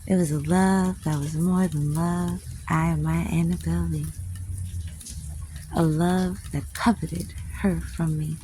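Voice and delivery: put-on poem recited in a southern accent. Reciting a favorite love poem aloud, southern accent. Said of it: "say it with a southern accent".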